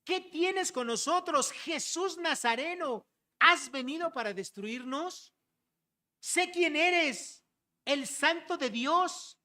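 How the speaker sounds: high, slow, drawn-out demon's outcry; demon crying out. Acted. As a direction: call out high and slowly, as a tormented demon. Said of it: "Este demonio dijo".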